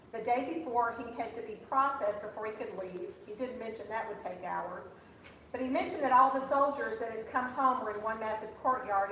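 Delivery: lively, emphatic reading of an essay; reading aloud. Acted. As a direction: read it out to the audience with punchy phrase starts. Reads daughter's written essay aloud.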